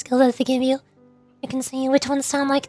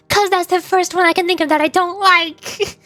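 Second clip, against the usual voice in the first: exasperated protest; 4 semitones higher than usual. Real, not acted. Exasperated defence to teasing chat.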